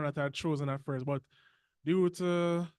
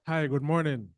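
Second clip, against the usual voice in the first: louder, projected greeting; speaking up; 5 dB louder than usual. Real, not acted. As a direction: say it up so the host can hear. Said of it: "Can you speak up?".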